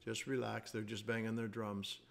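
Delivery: low-key, unhurried reassurance; calm coach steadying his players. Retold or imitated. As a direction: settle the team down, calm and even. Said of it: "in a very calm voice".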